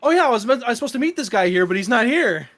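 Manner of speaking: put-on breezy young woman's voice; girl waiting.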